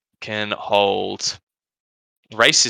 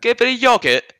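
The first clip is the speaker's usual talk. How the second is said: high-pitched British "yogurt", short first vowel; British caricature, "yogurt" said as yog-it; mock British pronunciation; 11 semitones higher than usual. Showing how British coworkers say yogurt, exaggerated British accent. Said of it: "Guess how they say yogurt".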